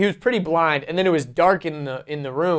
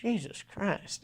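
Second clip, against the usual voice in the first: put-on old grandpa voice; 3 semitones higher, 14 dB quieter, slower than usual. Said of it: "he goes".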